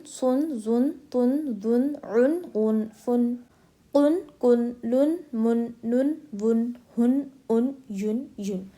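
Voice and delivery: "उन, बुन" with well-rounded u and clear n; rounded-lip izhar. Shown as a demonstration. Teacher drilling do pesh, rounded lips and clear n. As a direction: round the lips on "तुन", then sound the n fully. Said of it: "दो पेज में अच्छे से होंठ गोल कर कर".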